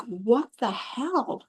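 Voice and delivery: slow, drawn-out disbelief; mildly mock-outraged under the breath; upset. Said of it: "he's so upset".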